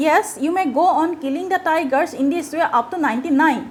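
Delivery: slow, dragged-out hesitant reading; drawled. Acted. Astrologer drawling his warning to the king, slow and hesitant. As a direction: stretch each word as if reluctant to go on. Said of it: "the astrologer drawled".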